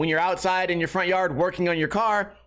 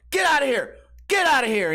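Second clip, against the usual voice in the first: higher-pitched mock scream at a dog; retold scream; 6 semitones higher, 3 dB louder than usual. Retelling how he screamed at a charging dog, mock scream. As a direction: re-enact yelling a dog away, pitch jumping up. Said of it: "I scream at the dog".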